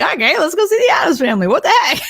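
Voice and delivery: mock excited. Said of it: "We're like".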